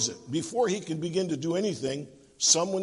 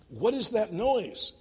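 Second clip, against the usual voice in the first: mildly alarmed, slow higher question; worried; 5 semitones higher, slower than usual. Acted. Boss hearing whirring over the phone, mildly worried. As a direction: lift and stretch the question with concern. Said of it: "growing more worried".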